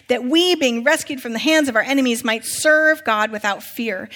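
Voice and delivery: declaimed prophecy, steady and rolling; scripture reading. A narrator's reading. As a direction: proclaim the blessing line by line to the congregation. Reads prophecy aloud to congregation.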